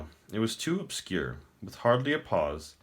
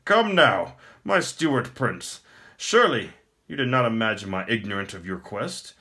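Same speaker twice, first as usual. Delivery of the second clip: louder and higher, laughing in triumph; gloating emperor; 4 semitones higher, 4 dB louder than usual. Acted. The Emperor gloats over the prince's failed word, loud and triumphant. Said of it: "The Emperor laughed".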